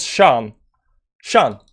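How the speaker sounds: "Sean" said as "shahn", open ah vowel; demonstrated pronunciation. Shown as a demonstration. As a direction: model "Sean" with a long open ah. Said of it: "pronounce Sean".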